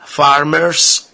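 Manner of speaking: slow, deliberately over-articulated fake British; mock British accent. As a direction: put on a sarcastic British accent, drawn out. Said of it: "one more time with my British accent".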